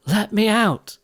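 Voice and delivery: high, loud cry for help; bellowing for help. A narrator's reading. Cinderella locked in the cellar, bellowing for help. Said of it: "She bellowed".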